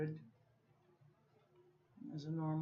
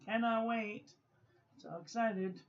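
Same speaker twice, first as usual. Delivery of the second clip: excited; 5 semitones higher, 4 dB louder than usual. Real, not acted. Eager about new pen.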